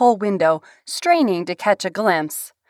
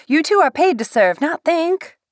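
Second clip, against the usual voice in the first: bossy scold; 8 semitones higher than usual. A narrator's reading. Bet scolding the two.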